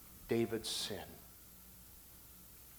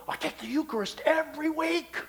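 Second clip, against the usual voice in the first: high-pitched mock reply; voiced churchgoer; 13 semitones higher than usual. Preacher acts out someone answering "are you saved", high-pitched churchgoer. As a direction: play the self-assured churchgoer in a raised voice. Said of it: "Ask somebody".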